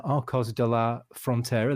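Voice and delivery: a modest try at a Spanish accent on the town name. Shown as a demonstration. Podcast host naming the Spanish town, in a Spanish accent. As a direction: says the place the way a Spaniard might, with a Spanish accent. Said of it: "That's my, that's my best Spanish accent".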